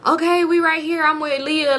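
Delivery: high, sing-song placating reply; baby voice. Retold or imitated. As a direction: imitate her brushing him off babyishly. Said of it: "this little baby voice".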